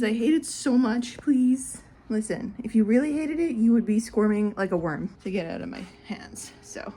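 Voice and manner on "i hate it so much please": loud mock pleading for a pet; hammed-up complaint; pet's protest. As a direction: plead as a fed-up pet, playfully.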